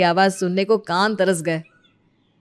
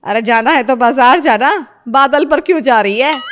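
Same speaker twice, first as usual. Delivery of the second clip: loud scold; 3 semitones higher, 6 dB louder than usual. Acted. Mother-in-law scolds loudly.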